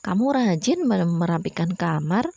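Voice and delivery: mildly high-toned example of praise; high intonation. Shown as a demonstration. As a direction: model a compliment with a lifted start. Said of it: "intonasinya agak tinggi ya".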